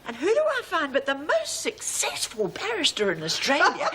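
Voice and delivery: giggling through the line; laughing. Acted. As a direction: hold back laughter as you tell it. Telling a funny story laughing.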